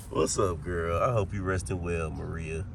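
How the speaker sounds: low, soft voice; low hushed greeting. Pretend. Host wishing Maria a good rest, hushed low voice. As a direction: greet her gently, low and quiet.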